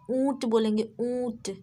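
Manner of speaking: ऊंट with the ऊ through the nose; nasalised vowel. Shown as a demonstration. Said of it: "इसे नाक से उच्चारित किया". (ऊंट का ऊ नाक से)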